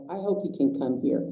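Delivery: usual speaking voice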